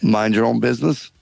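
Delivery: put-on French accent. French guard calling down from the castle wall, hammed-up French accent. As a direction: ham up a silly French guard. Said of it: "this outrageous accent".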